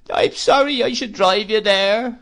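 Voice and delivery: high, loud plaintive widow's whine; Missus Gummidge. Acted. Mrs Gummidge pities herself at dinner, high whine. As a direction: whimper it like a self-pitying old widow.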